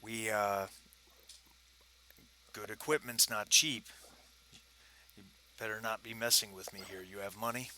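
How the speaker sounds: lightly voiced gravelly British dealer; a hint of a guarded gravel-voiced trader; low gravelly voice. Dealer warning buyers and checking for money, lightly gravelly voice. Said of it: "he's got that low gravelly voice".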